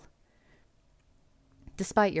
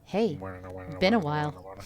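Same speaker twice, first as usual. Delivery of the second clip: hypnotoad voice; 3 dB louder than usual. Acted. Hypnotoad voice greeting.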